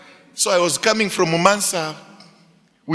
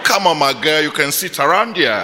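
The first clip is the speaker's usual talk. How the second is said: put-on Texas accent; 3 semitones lower than usual. Young pastor inviting a girl to sit, in a fake Texas accent. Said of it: "I changed my accent. I wanted to speak like from".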